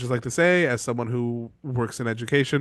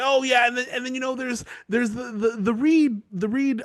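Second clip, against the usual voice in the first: mock sweet maester; 9 semitones higher than usual. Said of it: "He's like".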